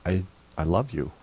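soft, gentle reassurance; a father forgiving his daughter; tender. Retold or imitated. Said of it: "I said".

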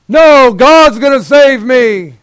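high, loud, slow, stretched-out refusal; stubborn refusal. Acted. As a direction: drag it out like a pious stubborn fool. Stubborn man refusing helicopter.

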